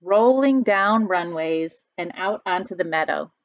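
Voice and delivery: storybook read-aloud, lightly dramatic; reading to children. A narrator's reading. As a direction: read the story to the class, drawing it out. Teacher reads picture book aloud.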